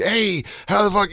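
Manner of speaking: lightly imitated high-pitched hello; familiar fan greeting. Bonfire fans who feel they know him, imitated greeting. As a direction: greet him like an old buddy.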